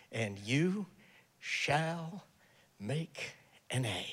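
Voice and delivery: low, soft, reassuring professor; hushed, unhurried assurance to a student; same words said kindly. Acted. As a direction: promise it gently, with quiet pauses. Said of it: "he says the same thing".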